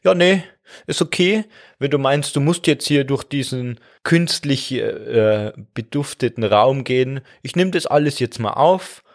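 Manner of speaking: mock-gracious organ who is secretly keeping score; passive-aggressive lung. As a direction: sweetly pretend it's fine while seething underneath. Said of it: "schon so ein bisschen passiv-aggressiv".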